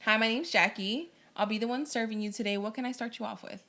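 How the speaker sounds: a light friendly waitress greeting; lightly voiced server. Shown as a demonstration. Guest to host, playing a waitress greeting. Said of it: "I can do it as a server".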